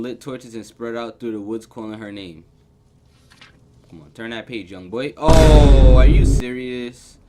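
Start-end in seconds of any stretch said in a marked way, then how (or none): 5.2-7.2 very loud, drawn-out exclamation; jolted shout of disbelief; startled outburst. Real, not acted. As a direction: blurt it loudly, stretching the words. Game scare interrupts reading.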